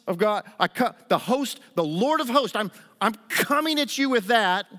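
put-on bold young hero. David's bold reply to Goliath.

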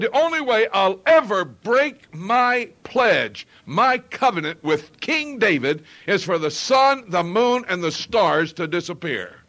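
slow, loud, weighty pledge; preacher voicing God's unbreakable promise, loud and slow; God's solemn vow. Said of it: "He said".

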